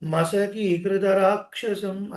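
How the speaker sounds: మసకీకృత with a light, undoubled "kru"; simple, soft kru. Shown as a demonstration. Teacher correcting, మసకీకృత with an easy single "kru". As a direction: glide from long "kee" into a light "kru" in మసకీకృత. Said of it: "సరళంగా పలకాలి".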